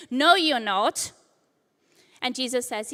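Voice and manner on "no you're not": loud, slowed retold outburst; impulsive shout. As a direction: blurt it out loud like impetuous Peter. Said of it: "Peter shouts in his impulsiveness".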